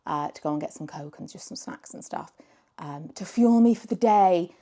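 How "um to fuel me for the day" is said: normal talking voice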